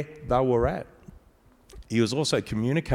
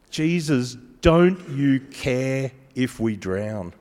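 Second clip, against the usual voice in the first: slow pleading; slower than usual. Retold or imitated.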